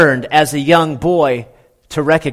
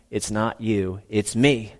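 breakup line; 2 semitones lower, 5 dB quieter than usual. Pretend. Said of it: "the Lord's breaking up".

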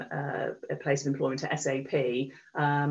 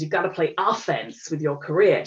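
amateurish imitation of an American accent; mock American accent, coaching advice; bad American accent. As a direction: put on a rough American accent. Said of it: "do my terrible American accent".

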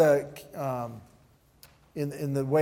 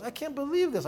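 emotional awe; 12 semitones higher than usual. Retold or imitated. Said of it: "He, he, he getting emotional".

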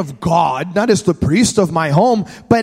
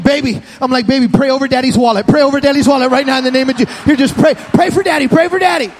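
put-on fast pleading to the child; eager dad; 3 semitones higher, faster than usual. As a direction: rush to get the boy to pray.

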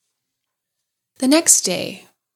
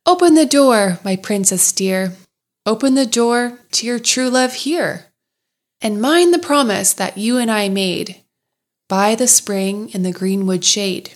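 little frog voice. Acted. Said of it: "a little voice cried out and said".

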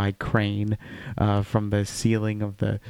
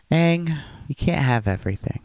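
scolding Katara; 6 semitones higher than usual. Retold or imitated. Voicing Katara scolding Aang.

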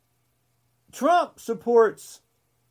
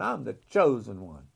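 mock grandiose; 11 semitones lower, 4 dB quieter than usual. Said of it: "He looked up to the heaven".

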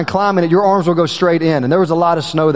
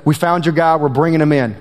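lightly lowered, terse ski patrol man; curt deep-voiced caller; 4 semitones lower than usual. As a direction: clip it short like a gruff patroller. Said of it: "this guy with a deep voice".

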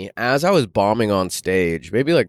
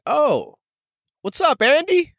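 much higher, bright casual greeting; calling out. Retold or imitated. Comic on stage greets tall friend Andy, higher casual call. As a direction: call across the room to a friend.

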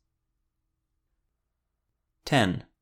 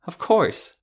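proud; 8 semitones higher, 5 dB louder than usual. Acted. Beatrix proud of cooking.

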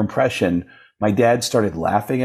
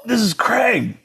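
excited introduction; 11 semitones higher, slower than usual. Retold or imitated.

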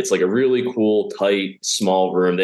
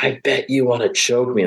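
pitched-up, held-back retold scream; mock scream; 6 semitones higher than usual. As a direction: imitate a heckler's scream at half force. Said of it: "she screams out".

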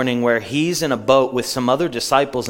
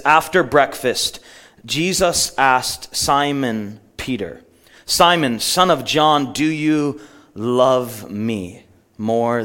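slow, deliberate Bible reading with weighted pauses; measured pulpit reading; solemn scripture reading; slower than usual. Acted. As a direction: read the passage aloud slowly, letting each phrase land. Reads Scripture aloud.

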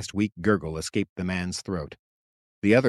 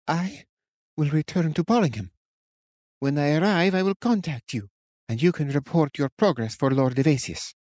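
higher, firm witch voice; 7 semitones higher than usual. A narrator's reading. Witch instructing the captain, firm. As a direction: brook no argument. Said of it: "took a tone that did not allow for argument".

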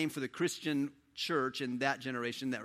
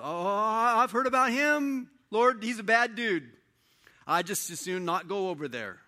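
louder, higher and slow, alarmed; reluctant Ananias; 6 semitones higher, 5 dB louder than usual. Acted. Ananias objecting to the Lord, loud and alarmed. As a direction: balk at the order, worried. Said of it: "Ananias goes".

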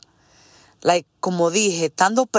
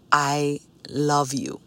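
put-on Spanish accent; 4 semitones lower, slower than usual. Mom hugging her college-bound daughter, Spanish accent. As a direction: tenderly imitate mom's Spanish-accented English. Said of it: "with her little cute accent".

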